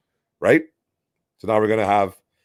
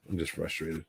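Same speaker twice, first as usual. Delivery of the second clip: trailing off; 7 semitones lower, 16 dB quieter than usual. Real, not acted. Frustration trailing off.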